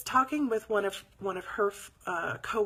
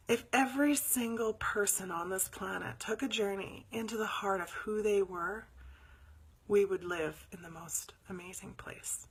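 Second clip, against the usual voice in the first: earnest whisper. Real, not acted. Sincere belief, whispered.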